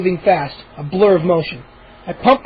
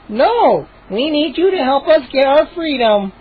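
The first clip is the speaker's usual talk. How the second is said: solemn; 6 semitones higher than usual. A narrator's reading. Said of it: "Chip said solemnly".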